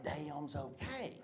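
hushed, slow imitation of mama; whispering. Mama explaining the allowed word to son, whispering. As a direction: drop to a secretive hush on the word. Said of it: "why are you whispering damn?".

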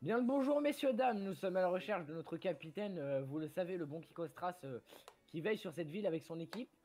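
lightly acted public address to townsfolk; formal speech. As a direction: open like an official addressing villagers. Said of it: "je vais faire le discours". (discours officiel légèrement joué)

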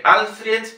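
Alfred as "Alfriet", not plain E; gliding E. Shown as a demonstration. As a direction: demonstrate Russian Alfred. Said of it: "no es E".

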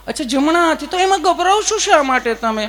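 high, sugary nurse voice; sweet nurse. Acted. Nurse sweetly asking Gabho why he is scared, high voice. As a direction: coo at him like a kind nurse.

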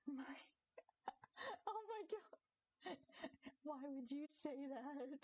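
high, slow shocked disbelief. Real, not acted. Reading a crude chat message, high slow shock. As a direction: drag it out, scandalised.

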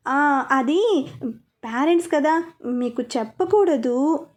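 slow, hesitant, trailing off; shy son dodging his parents' question, hesitant; hesitant mumbling. Acted. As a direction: stall awkwardly, unwilling to tell. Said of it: "అన్నాడు నసుగుతూ".

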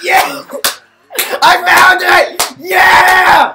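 trolling a stranger, hammed-up cheering; hammed-up excitement. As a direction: overplay the triumph. Trolls celebrate finding mark.

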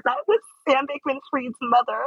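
mildly uneasy, telling strangers who she is; awkward. Retold or imitated. Telling onlookers who yelled, lightly awkward. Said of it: "awkwardly be like".

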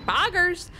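high-pitched cartoon mascot catchphrase; Chuck E. Cheese. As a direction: pipe it up like a mascot. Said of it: "say the Chuck E. Cheese Poggers".

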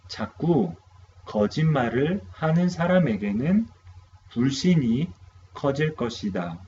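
second quick model reading, same speed; rapid repeat of 거짓말을 하는 사람에게는; repeated fast model. Shown as a demonstration. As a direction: say the sentence again fast for repetition.

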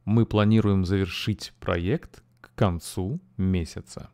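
Мы планируем завершить проект к концу месяца read clearly, evenly; full sentence model. Shown as a demonstration. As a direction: read the whole sentence with the class. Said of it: "let's read the whole thing together".

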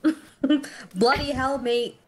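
hammed-up Australian accent; mock Australian accent. Teasing the Australian player, mock Australian accent. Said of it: "that's slightly racist".

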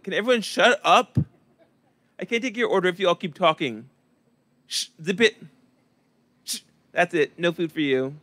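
fed-up server shushing a noisy table, mock stern; mock server scolding table. Server silencing a loud table.

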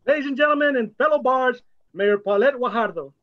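announcer introduction. Real, not acted. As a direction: introduce her like a ring announcer. Host announcing the mayor.

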